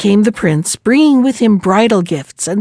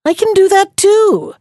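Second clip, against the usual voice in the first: high, scornful brag; scornful boast; 10 semitones higher than usual. Acted. New bride scoffs at the ladies, pitched-up scornful boast. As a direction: toss it off with lofty scorn. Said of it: "said she scornfully".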